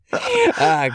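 ordinary talk, nothing marked

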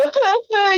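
high, hammed-up wail; imitated crying sound; mock sob. Retelling own tears on hearing Luis is fine, mock sob. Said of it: "yo llorando".

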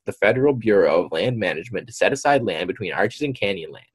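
animated narration with swooping emphasis; article read-aloud. Acted. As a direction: read the report out as a story.

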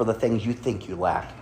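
emphasis landing on "think" within the phrase; stress on think. Real, not acted. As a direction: lean on the word "think". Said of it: "I stress the word think".

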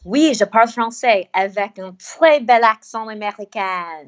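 French with a deliberate American accent; French spoken with a proud American twang. Shown as a demonstration. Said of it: "you speak French?".

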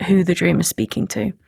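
distorted, wobbling call line; glitchy warbling connection; wobbly warbling call audio. Real, not acted. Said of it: "your sound is distorting".

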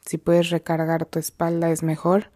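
measured meditation guide with long pauses; guided meditation. Real, not acted. Guide leading listeners to breathe and come to the present, unhurried meditation voice. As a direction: lead them gently into the breath, leaving long silences.

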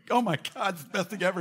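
high, gushing rapture; mock gushing. Pastor mimicking a gushing neighbour in church, high and excited. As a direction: gush like a thrilled worshipper.

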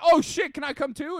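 high, excited retold quote; loud, high burst, then a pleading question; imitated eagerness. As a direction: act out a friend eagerly inviting himself along. Retells Sherman eagerly asking along.

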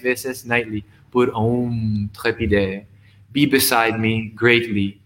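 measured poetry reading with unhurried pauses; poem recitation. Acted. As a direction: read it like a poem to a small audience. Recites his multilingual poem.

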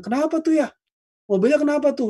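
high, casual, careless asking; mock casual asking. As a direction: play an indifferent relative who barely cares. Mocking indifferent modern family chat.

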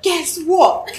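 excited message. Retold or imitated. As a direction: read it out like an exclamation-marked text. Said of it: "All caps, exclamation mark".

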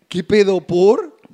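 loud indignant question; loud outburst. Real, not acted. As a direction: blurt it out loud. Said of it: "no grites".

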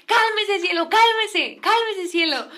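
slow, high imitated plea; pleading husband. Man calming his wife, imitated weary pleading. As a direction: stretch out each soothing command. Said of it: "Me acuerdo mucho que le decía así".

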